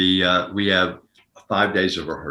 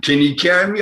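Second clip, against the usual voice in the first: high, breezy put-on Mickey voice; cocky high-pitched buddy call; Mickey's greeting; 9 semitones higher, 6 dB louder than usual. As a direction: tease your partner like Mickey would. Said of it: "he'd always say".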